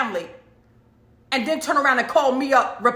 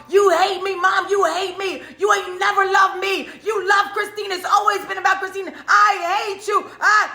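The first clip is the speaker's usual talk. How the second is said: high furious screaming, much louder; screaming at mom; 9 semitones higher, 4 dB louder than usual. Retold or imitated. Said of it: "yelling and screaming in the phone".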